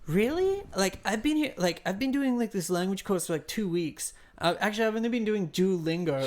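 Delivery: boastful language learner. Retold or imitated. Newcomer bragging about his German course, mock high voice. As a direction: mimic him, starting with a squeaky jump in pitch. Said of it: "He's like".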